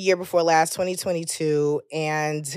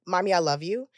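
gently and nicely; 2 semitones lower, 6 dB quieter than usual. Retold or imitated. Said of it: "very gently and very nicely".

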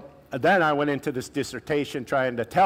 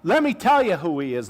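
bold challenge; 5 semitones higher, 4 dB louder than usual. Retold or imitated. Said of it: "he's like".

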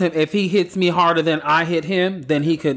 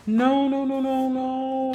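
high protesting no; 9 semitones higher, 4 dB quieter, much slower than usual. Real, not acted. Upset protest.

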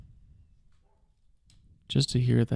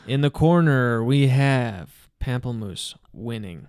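ring announcer; 3 dB louder than usual. Pretend.

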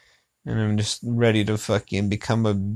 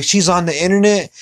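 retold disbelief; 6 semitones higher, 4 dB louder than usual. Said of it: "I was like".

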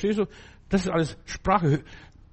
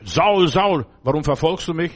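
loud, raised call of "Saul, Saul"; 4 dB louder than usual. Retold or imitated. The Lord calls out to Saul lying on the road. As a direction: call down from heaven to the man on the ground.

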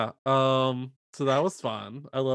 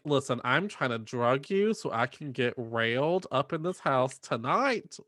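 mock exasperated mom. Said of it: "The mom is like".

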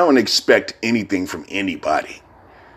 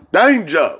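high hype chant of Danger; hype call; 9 semitones higher than usual. Retold or imitated. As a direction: shout it like an announcer's catchphrase. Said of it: "Remember that shit?".

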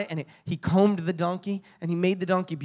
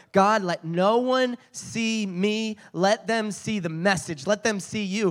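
earnest prayer; 4 semitones higher, slower than usual. Retold or imitated. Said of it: "I'm praying the whole time".

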